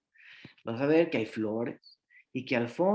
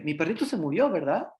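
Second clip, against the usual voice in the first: put-on child asking. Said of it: "Lo mismo pasa con la muerte, de que".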